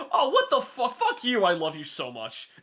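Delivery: high, loud mock reaction easing down; retold outburst. Reactor cursing a scene they adore, retold outburst. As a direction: imitate an overwhelmed fan bursting out. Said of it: "which was like".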